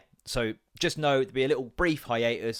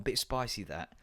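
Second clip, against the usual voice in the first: Michael Vaughan quote; 3 semitones lower, 6 dB quieter, slower than usual. Retold or imitated. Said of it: "To quote a certain Michael Vaughan".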